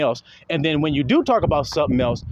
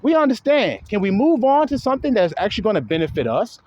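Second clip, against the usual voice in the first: higher, impatient viewer voice, pleading him to move on; mimicking exasperated viewers; 5 semitones higher than usual. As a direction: play the fed-up fans begging him to stop. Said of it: "They're telling Ringo and shit right on his live stream".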